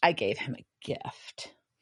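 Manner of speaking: whispered, quiet and low. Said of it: "And she just goes".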